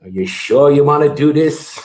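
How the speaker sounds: lightly imitated doubtful dad; dad impression. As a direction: question it as a sceptical father would. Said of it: "he came home, and he looks at me".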